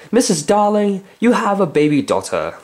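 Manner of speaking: John's voice. Acted. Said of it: "First, John said".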